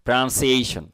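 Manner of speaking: প্রনাউন্সিয়েশন joined up as "pra-nun-si-ey-shun"; careful model pronunciation. Shown as a demonstration. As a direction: model প্রনাউন্সিয়েশন clearly as one word. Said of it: "এটা খেয়াল করবেন কিন্তু". (প্রনাউন্সিয়েশন, স্পষ্ট করে একটানা)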